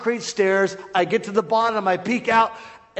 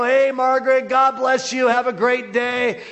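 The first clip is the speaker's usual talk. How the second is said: raised, friendly call-out; cheery greeting; 5 semitones higher than usual. Retold or imitated. Preacher trying to defuse angry neighbor, cheery call. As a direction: call a bright hello across the yard. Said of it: "so I try to raise up my hand to her, and I go".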